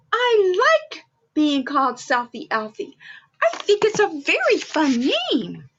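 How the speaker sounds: a touch of a happy little elf; Elfie's voice. Acted. Elf answering Santa, mildly perky and proud.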